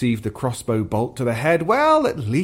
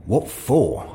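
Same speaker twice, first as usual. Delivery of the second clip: hit back. Acted. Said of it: "Ias hit back".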